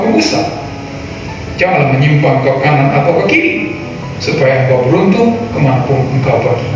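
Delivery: solemn Bible reading over music; scripture reading. Acted. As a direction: read scripture with weight. Reads scripture aloud. (pembacaan Alkitab yang khidmat)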